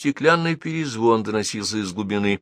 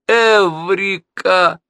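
high, drawn-out joyful shout; thrilled cry of realisation; eureka cry; 11 semitones higher, 5 dB louder, much slower than usual. A narrator's reading. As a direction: shout it like a sudden discovery. Boy's sudden discovery.

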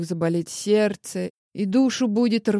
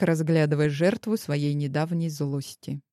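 usual speaking voice

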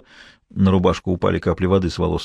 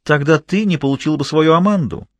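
shouting; 6 semitones higher than usual. Acted. Mistress shouting back at her jealous lover, mocking. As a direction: fling his own jealousy back at him. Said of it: "кричала Изольда".

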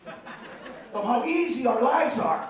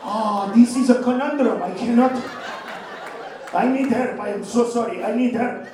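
put-on slow, baffled Asian accent, rising up to a shout; a hammed-up stumped genius in an Asian accent; puzzled Asian mathematician accent; slower than usual. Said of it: "he will look at it and go".

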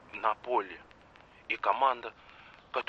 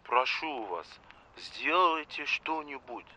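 quiet plea; 4 semitones lower, 7 dB quieter than usual. Acted. Official pleading quietly.

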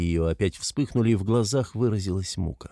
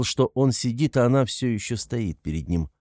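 plain reading voice

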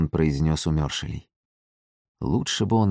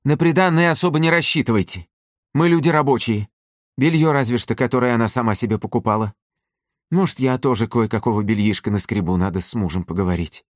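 much higher and louder, scolding; angry again; 6 semitones higher, 3 dB louder than usual. A narrator's reading. Mother to the suitor about the dowry, angry scolding. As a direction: snap at him about money. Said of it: "И вдруг снова злится".

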